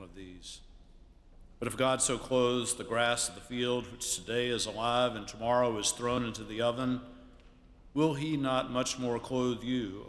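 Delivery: measured, solemn Bible reading; scripture reading. Acted. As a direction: read the Gospel to the congregation with weight. Reads scripture aloud at a service.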